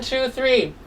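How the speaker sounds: ordinary talk, nothing marked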